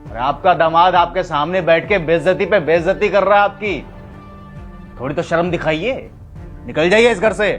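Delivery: furious high, shouted rebuke; angry. Acted. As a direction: yell at her to get out. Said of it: "दामाद जी इतने गुस्से में क्यों है?".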